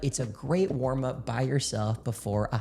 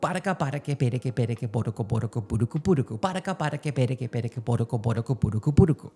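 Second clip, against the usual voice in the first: four rounds, one breath; faster than usual. Shown as a demonstration. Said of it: "do it four straight times in one breath".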